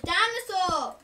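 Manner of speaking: put-on "Dinosaur" high and loud, childish ending; insistent little kid. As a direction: kiddie voice, insisting. Child insists louder on word.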